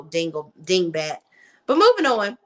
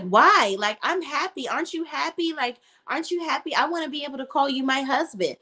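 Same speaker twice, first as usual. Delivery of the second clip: imitating a pleading wife, higher pitched; mock plaintive protest, voice lifted; 6 semitones higher than usual. Wife begging husband not to annul the marriage, pleading.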